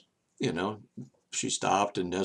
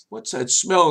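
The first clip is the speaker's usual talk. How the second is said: mock disgusted question; 9 semitones higher, 8 dB louder than usual. Strangers reacting to the smell.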